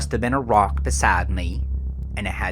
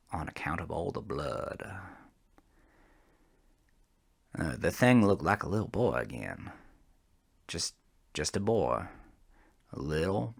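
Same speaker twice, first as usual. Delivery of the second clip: much softer, sinking to a near hush; hushed, fading; 5 semitones lower, 11 dB quieter than usual. A narrator's reading. Trucker recalling the bloodied boy, fading hush. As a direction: let the memory drain the voice away.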